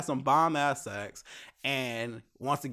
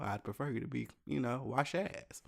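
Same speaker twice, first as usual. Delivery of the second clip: softer, blunt aside of what he really meant; blunt inner thought; 8 dB quieter than usual. Retold or imitated. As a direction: drop the politeness, say it under your breath. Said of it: "I didn't say that, but".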